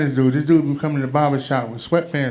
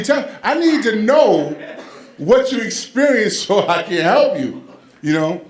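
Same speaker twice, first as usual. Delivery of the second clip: mock concerned father; 4 semitones higher than usual. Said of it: "I said".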